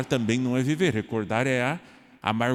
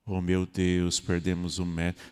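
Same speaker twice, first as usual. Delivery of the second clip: mock lament; 5 semitones lower, 3 dB quieter than usual. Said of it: "a chorar".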